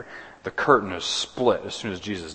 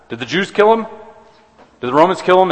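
rising rhetorical challenge; 9 semitones higher, 6 dB louder, faster than usual. Real, not acted. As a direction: pitch jumps higher and louder on each question.

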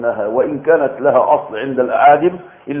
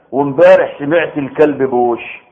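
slow demo sentence. Shown as a demonstration. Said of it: "أنا إيه قلت إيه دلوقتي؟".

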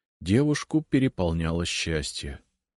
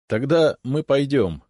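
laughing; 8 semitones higher, 6 dB louder than usual. A narrator's reading. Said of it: "рассмеялся я".

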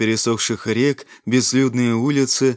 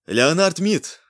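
Мид said louder and higher; 6 semitones higher, slower than usual. A narrator's reading. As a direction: repeat Леонард Мид loudly, raised. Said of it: "Громче!".

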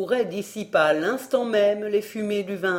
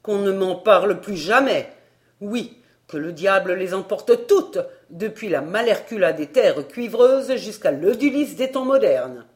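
exasperated outburst; 6 dB louder than usual. Acted. Narrator shouting at the waiter, loud and exasperated. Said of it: "m'écriai-je".

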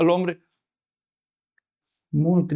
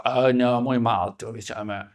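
mock whimper; 8 semitones lower, 8 dB quieter, slower than usual. Visitor squirming, hurt.

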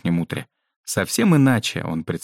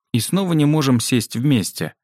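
higher-pitched mild grumble; displeased complaint; 6 semitones higher than usual. A narrator's reading. Yao objects to the seating cards, displeased. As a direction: complain with a touch of discontent. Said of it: "недовольно заметил Яо".

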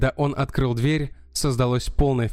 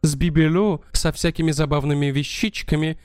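pleading countess; 4 semitones higher than usual. Acted. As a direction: protest it, pitched up and urgent. Countess protests innocence.

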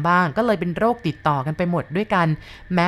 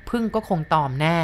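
plain reading voice

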